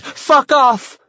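high, frantic yell; screamed. A narrator's reading. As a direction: yell it to drive a ghost away. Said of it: "You screamed and screamed".

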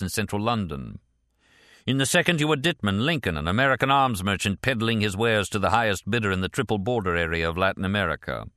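lightly voiced British official, lifted pitch on opening phrases; a touch of official recital from a file card; supervisor reading aloud. Supervisor reads from index card.

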